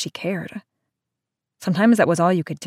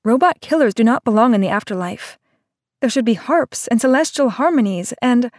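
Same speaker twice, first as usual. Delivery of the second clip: higher, louder distraught tirade; upset rant; 5 semitones higher, 3 dB louder than usual. Acted. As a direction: pour out the grievance, close to tears. Seiya rants before bursting into tears.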